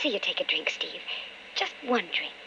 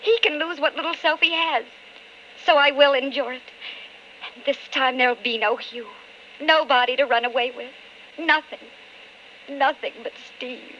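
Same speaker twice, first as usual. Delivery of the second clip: tense thoughts over music; inner monologue; 3 semitones higher than usual. Acted. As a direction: think it aloud, torn and resolved.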